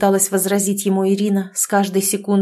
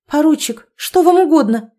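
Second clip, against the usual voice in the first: higher and louder, a defiant demand; defiant challenge; 7 semitones higher, 5 dB louder than usual. Acted. Bride confronts the drunk lieutenant, defiant and raised. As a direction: challenge him, chin up. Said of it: "с вызовом спросила Ирина".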